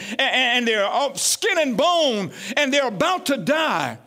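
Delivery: emphatic preacher, stretched key words; fervent preaching. Real, not acted. Preacher urging the congregation not to wake up too late, fervent preaching. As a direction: press the point home with stretched stresses.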